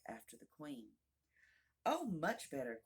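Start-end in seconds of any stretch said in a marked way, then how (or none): 1.9-2.8 mild, contented exclamation; exclaimed cry. Acted. The queen answers Alice about her finger, mildly exclaiming. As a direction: cry it out with modest relief. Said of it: "cried the queen".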